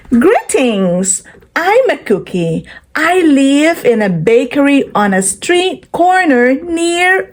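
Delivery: gentle storybook read-aloud voice; reading to children. Acted. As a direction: read it like a picture book for little kids. Reading picture book aloud to children.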